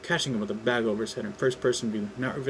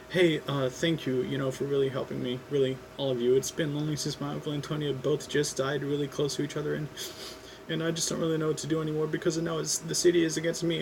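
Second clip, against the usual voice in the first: lightly voiced teen hero, a bit higher, opening up; grateful kid spilling his troubles, speeding up; young Peter, earnest; 4 semitones higher than usual. Peter pours out his loneliness.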